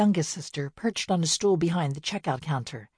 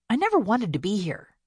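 mild reminder; 5 semitones higher than usual. Acted. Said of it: "she reminded them".

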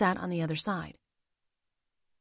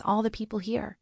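Goldie's gentle defence; 3 semitones higher than usual. Acted. Goldie defends the leader, gets echoed.

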